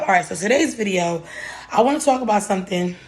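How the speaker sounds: breathless after climbing stairs; panting a little between words; out of breath. Real, not acted. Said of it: "I'm out of breath".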